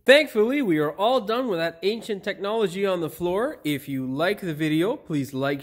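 upbeat how-to host delivery; video presenter. Acted. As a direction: project to the audience with punchy emphasis. Scripted presenting to camera, plain muttered asides between.

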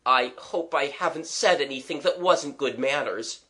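mildly anxious apology; a touch of worry, earnestly hoping. Acted. Young man fearing he forgot his manners, mildly anxious. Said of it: "he said anxiously".

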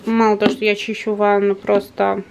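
slushy lisp after the dentist. Real, not acted. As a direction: lisp through a numb mouth. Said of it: "шепелявым голосом расскажу".

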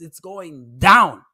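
slow, loud, drawn-out going down; stressing that the views keep dropping; slow emphatic. Real, not acted. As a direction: lean hard on each word. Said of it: "views stats down".

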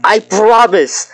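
high, loud, drawn-out insistence; emphatic protest. Real, not acted. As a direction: insist loudly, stretching it out.

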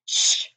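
hissed shush; sharp shush. Acted. McGonagall silencing Hagrid, sharp shush. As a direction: hush him fast. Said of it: "hissed Professor McGonagall".

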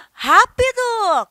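high loud urgent rápido; hurried cry. Shown as a demonstration. Teacher mock-panics that time is up. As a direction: rush them. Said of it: "o tempo acabou".

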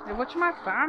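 "matar" shouted, falling hard at the end; shouted "Eu vou te matar". Real, not acted. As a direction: yell "Eu vou te matar" at the ghost. Repeated threat while fighting.

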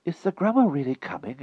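put-on quick eager young lad; hasty boy. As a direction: rush the question to change subject. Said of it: "hastily changing the subject".

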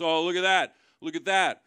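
mock excited pointing. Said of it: "He goes".

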